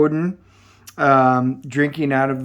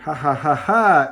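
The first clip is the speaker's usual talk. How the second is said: mock laugh. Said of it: "All he does is start laughing".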